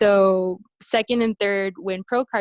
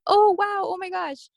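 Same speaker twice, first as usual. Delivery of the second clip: mock excited idol; 6 semitones higher than usual. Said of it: "he's like".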